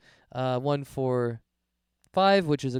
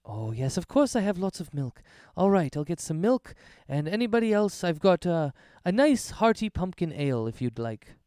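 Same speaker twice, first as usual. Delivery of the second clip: a lightly raised, friendly hostess voice; slightly higher, welcoming tavern keeper; Errol the hospitable innkeeper; 4 semitones higher than usual. Acted. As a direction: play the cheerful host offering milk and ale.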